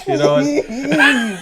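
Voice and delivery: high, slow words dissolving into laughter; laughing outburst. Real, not acted. Podcaster cracking up at his own bad joke, laughing. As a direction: squeal it out while cracking up.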